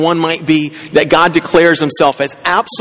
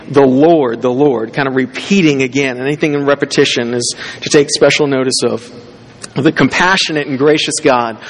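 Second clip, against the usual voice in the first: scripture reading; 2 semitones lower than usual. Acted. Reads scripture aloud.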